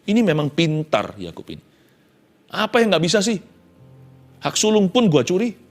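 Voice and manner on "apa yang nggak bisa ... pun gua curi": leicht gespielter, selbstgefälliger Jakob; prahlender Jakob. Acted. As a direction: prahlt mit seinen Tricks, etwas höher. Jakob prahlt in Ich-Form.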